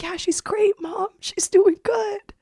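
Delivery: high tender whisper; reassuring a frail mother in a whisper; whispered reassurance. Retold or imitated.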